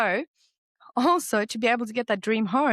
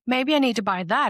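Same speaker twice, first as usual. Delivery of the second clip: high, eager voice of a shopping craving; tempted inner voice; 5 semitones higher, 5 dB louder than usual. Retold or imitated. My mind tempting me to shop, high and eager. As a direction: let the mind swoon over a shiny buy. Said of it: "my mind's like".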